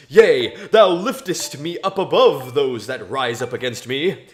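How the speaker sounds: solemn scripture reading voice; biblical reading. Acted. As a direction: read it like a psalm. Reading Psalm 18 aloud solemnly.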